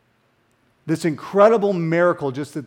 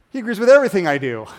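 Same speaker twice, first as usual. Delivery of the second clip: mock smug voice, louder and fast; mocking quote; 3 semitones higher, 5 dB louder, much faster than usual. Preacher mocking a self-made God, smug and fast. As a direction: rattle it off like a self-satisfied believer.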